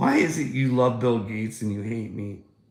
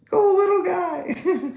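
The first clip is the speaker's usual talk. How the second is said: high, slow, sing-song mock cheer; sarcastic high-pitched encouragement; mock cheerleader; 7 dB louder, slower than usual. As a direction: cheer him on like a patronizing coach. Mocking cheer for Ukraine.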